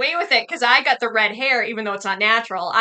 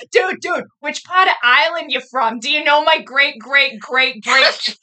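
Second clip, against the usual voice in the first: loud, excited Boston dude voice; mock Boston accent; 3 semitones higher, 5 dB louder, slower than usual. Local quizzing an Irishman about his great-grandparent, loud Boston accent. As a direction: mimic a boastful Boston local. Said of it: "I'm trying to do that".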